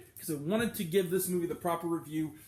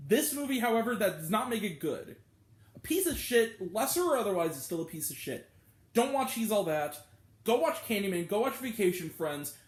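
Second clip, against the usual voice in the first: real angry rant; 3 semitones higher than usual. Real, not acted. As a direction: vent at the movie, then push the alternative. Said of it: "I got re too mad".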